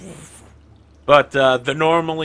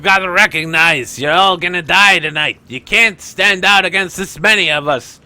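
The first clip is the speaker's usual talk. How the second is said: raised, higher gangster bluster; shouted threat; 4 semitones higher, 5 dB louder than usual. Acted. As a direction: shout the enemy down in character. Gang leader shouts back threats.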